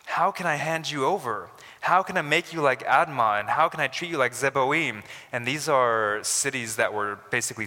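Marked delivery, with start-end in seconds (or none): 0.0-5.0 a moved, pleading divine voice; pleading voice of God. Acted. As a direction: plead each question as God, building.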